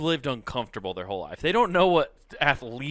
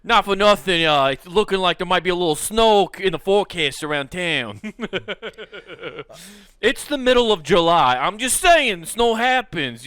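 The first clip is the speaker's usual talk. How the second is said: a hint of a mob dealer; 4 semitones higher, 5 dB louder than usual.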